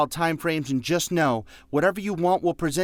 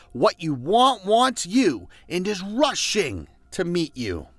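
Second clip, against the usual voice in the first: quoting mentor; 4 semitones higher, 3 dB louder than usual. Retold or imitated. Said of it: "he says it like this".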